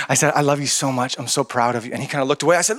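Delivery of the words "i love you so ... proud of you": tender. Retold or imitated. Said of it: "I didn't do it with the accent".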